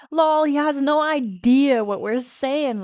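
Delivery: slow, loud, taunting schoolgirl; mocking mean girl. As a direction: jeer at him slowly and loudly. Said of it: "laughs one of them".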